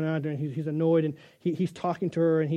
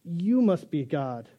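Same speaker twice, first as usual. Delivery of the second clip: adoring dog; slower than usual. Pretend. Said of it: "the dog says".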